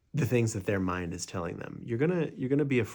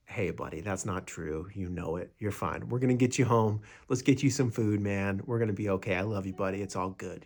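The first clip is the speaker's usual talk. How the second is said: soothing friend. Retold or imitated. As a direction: talk them down kindly like a good friend. Soothing your drunk mind.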